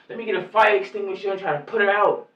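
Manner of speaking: calling out for a fire extinguisher; imagined bystander shouting to help; mock shout. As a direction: shout it like a helper running in.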